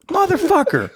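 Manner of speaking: high, laughing swear at himself; laughing curse. Real, not acted. Man laughing at his own aching back, high laughing curse. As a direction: curse then break into laughter.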